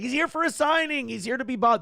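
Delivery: lightly voiced insistent father; dad egging on his son; imitating dad. Dad's voice in story.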